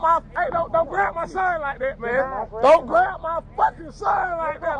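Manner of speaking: angry yelling at officers; angry shout. Real, not acted. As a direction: shout it in outrage. Father confronts grabbing officers.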